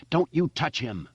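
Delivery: high, pleading scream. Acted. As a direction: keep screaming at the spider. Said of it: "she screamed at the spider".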